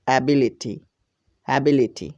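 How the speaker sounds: "অ্যাবিলিটি" blended as a-bi-li-ti, falling at the end; teacher modelling "অ্যাবিলিটি" as a whole word; pronunciation demo. Shown as a demonstration. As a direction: say "অ্যাবিলিটি" carefully for learners, then repeat it alike. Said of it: "সবগুলোকে একত্রে আমরা উচ্চারণ করব".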